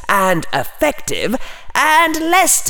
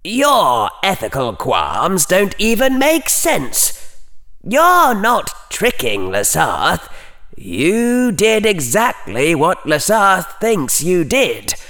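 coldly; 10 semitones higher than usual. A narrator's reading. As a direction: lecture him with icy scorn. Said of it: "said coldly".

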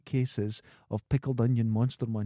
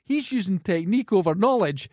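higher, louder, fast exasperation; exasperated rant; 7 semitones higher, 4 dB louder than usual. Real, not acted. Ranting at co-host over his arguing technique, exasperated. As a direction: wind up and vent at him.

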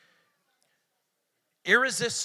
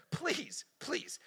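soft pleading Lot; urging plea; 4 dB quieter than usual. Retold or imitated. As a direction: beg the guests to stay. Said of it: "He urged them".

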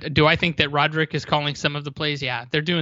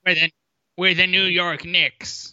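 put-on New York accent; slower than usual. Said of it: "our terrible New York accents".

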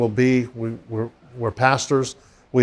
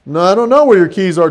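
louder, fed-up; annoyed patient; 4 semitones higher, 5 dB louder than usual. Retold or imitated. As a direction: brush him off, fed up. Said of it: "she'd go".

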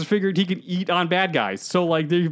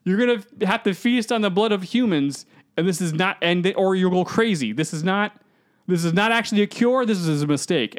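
urgent warning; 3 semitones higher than usual. Retold or imitated.

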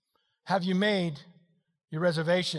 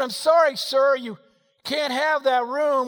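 mock hotel clerk; 4 semitones higher, slower than usual. Clerk telling the guest he can't have that room, mock apologetic and slow. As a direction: play the clerk turning him away, slow and sorry.

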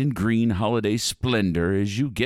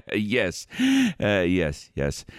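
spooky ride narrator; 3 semitones higher than usual. Acted. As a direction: welcome the guests with flourish. Host greets riders.

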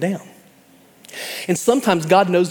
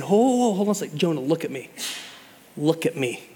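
tender father; 2 semitones lower, 5 dB quieter than usual. Retold or imitated. Father calming a child having a meltdown, soft and tender. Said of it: "cupping their face ... and saying".

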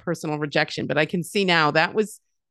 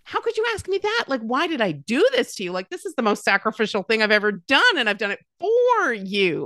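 hurt reply; 5 semitones higher than usual. Retold or imitated. Hurt mother's retold reply.

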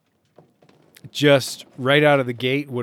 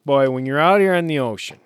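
put-on Chicago Bears fan accent; quick, playful Chicago accent; 4 dB louder, faster than usual. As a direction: do an old comedy-sketch Chicago accent. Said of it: "it's kind of Chicago Bears throwback".

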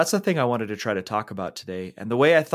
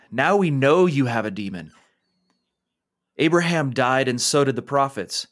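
louder, pushy accusation; angry Pharisees; 3 semitones higher, 4 dB louder than usual. Acted. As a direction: throw the charge back at him. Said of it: "upset and angry at those words".

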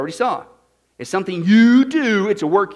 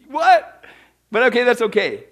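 high laughing what; a laughing, incredulous what; laughing disbelief; 4 semitones higher, 4 dB louder than usual. Real, not acted.

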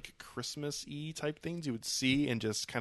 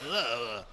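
disgusted groan. Real, not acted. Disgust at the film scene.

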